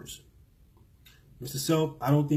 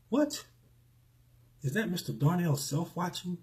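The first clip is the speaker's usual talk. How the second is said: surprised; 5 semitones higher than usual. Real, not acted. Spots a viewer in the live chat.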